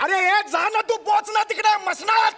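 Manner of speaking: angry yell. Acted. Angry son-in-law yells at father-in-law.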